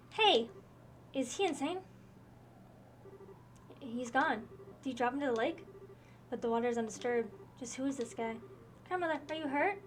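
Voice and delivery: lightly voiced game characters in a dueling scene; reading game dialogue aloud. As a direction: read each character's line with mild drama.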